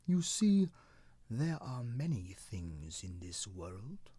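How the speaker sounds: put-on slow, plain-spoken old tree explaining; matter-of-fact. Cedar explains the world to cloud, slow matter-of-fact. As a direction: lay it out slowly like simple facts. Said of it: "in a very matter-of-fact voice".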